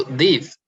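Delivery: "diff" singled out with firm stress; stressed syllable. Shown as a demonstration. Teacher isolating the stressed part of difficult, "diff" said firmly. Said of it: "you stress on it".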